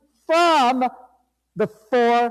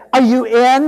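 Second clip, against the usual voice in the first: loud call; 7 dB louder than usual. Acted. Third call to congregation.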